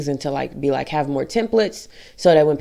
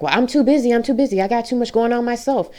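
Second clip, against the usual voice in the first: imitating coworker; 8 semitones higher than usual. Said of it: "she like, was like".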